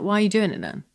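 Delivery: retold pointed parental question; challenging dad. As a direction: put it to them as a baffled parent. Retells dad's challenge to her.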